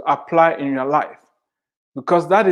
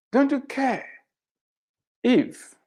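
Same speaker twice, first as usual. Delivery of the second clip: retold desperate cry; 9 semitones higher, 5 dB quieter, slower than usual. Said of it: "screaming and yelling and calling out".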